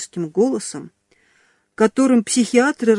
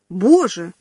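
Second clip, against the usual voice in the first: loud "Боже!" as if horrified; shriek of dismay; 3 dB louder than usual. Acted. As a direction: cry out in shock. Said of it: "завопила Юля".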